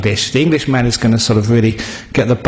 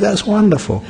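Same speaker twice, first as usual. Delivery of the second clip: wonderful lifted high then dropping; 7 semitones higher than usual. Shown as a demonstration. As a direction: say wonderful with a high falling tune.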